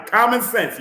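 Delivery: loud. Real, not acted. Urges viewers to use sense.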